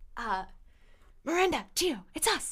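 high, hushed stage whisper. Whispering down through the trapdoor to the two people below. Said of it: "let's whisper to the trapdoor".

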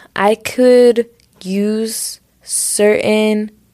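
slow, odd-sounding voice. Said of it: "why am I talking like this?".

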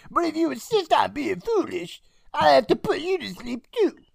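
very high, rough, squeezed-up, rasping creature voice. Retelling a scene, speaking as Bobcat threatening Jill: Bobcat voice. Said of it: "My throat's getting sore from Bobcat".

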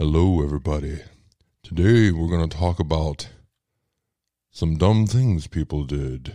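deep, low voice in a dropped register. Host showing how their show opening would sound in a deep voice. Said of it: "Nobody's ready for that deep".

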